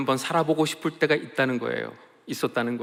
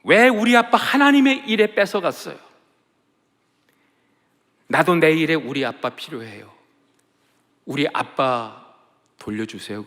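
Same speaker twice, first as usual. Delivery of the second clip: wailing prayer; 3 semitones higher, 6 dB louder than usual. Retold or imitated. Daughter wailing to God for her father back. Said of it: "땅을 치면서 통곡하면서 소리를 지르고".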